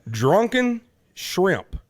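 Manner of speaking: put-on "Drunken shrimp" said slowly, each word pronounced with care; careful drunken shrimp. Shown as a demonstration. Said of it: "I can't even speak right now".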